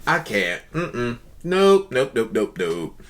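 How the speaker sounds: low, soft, done-with-it nopes; quiet refusal. Real, not acted. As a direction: mutter it, unable to watch. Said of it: "I can't see no more".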